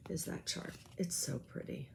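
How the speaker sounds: soft whispered admiration of the chart; hushed whisper. Real, not acted. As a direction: whisper it, almost no voice. Whispering about the pretty chart.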